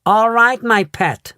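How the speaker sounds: soothing mother. A narrator's reading. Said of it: "Missus Salt said soothingly".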